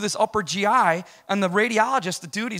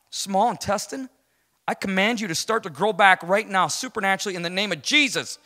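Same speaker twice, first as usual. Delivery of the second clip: commanding prayer; 3 semitones higher, 5 dB louder than usual. Retold or imitated. Preacher commanding the intestine to grow back, firm decree. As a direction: rebuke it with authority. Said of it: "he speaks to the mountain".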